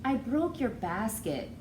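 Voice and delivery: slow, sheepish little admission; mild confessing. Acted. Girl confesses to grandmother about the basket, mildly sheepish. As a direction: own up gently, a bit ashamed. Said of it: "Aissatou confesses".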